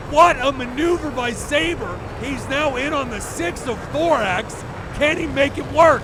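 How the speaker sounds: rising, urgent commentator call; excited play-by-play. Real, not acted. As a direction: call the dogfight at full excitement.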